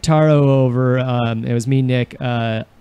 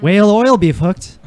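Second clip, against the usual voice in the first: trying an Irish accent. Shown as a demonstration. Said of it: "Say it again".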